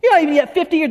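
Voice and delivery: high-pitched mock disbelief; incredulous challenge. The Jews in conversation with Jesus, acted incredulity.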